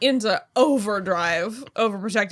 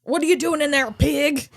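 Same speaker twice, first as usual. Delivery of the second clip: put-on Southern accent; 2 semitones higher than usual. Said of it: "I'm just gonna do my Southern accent".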